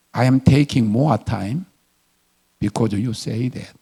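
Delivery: very slow, measured English; deliberate retort. Retold or imitated. Customer telling the impatient woman off, slow deliberate retort. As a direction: spell it out slowly to provoke her.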